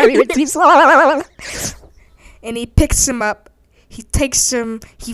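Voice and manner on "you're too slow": loud, high, drawn-out warbling taunt; mocking bird. Bird taunts Danny, mocking warble. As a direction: stretch it into a silly wobbly jeer. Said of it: "And the bird says".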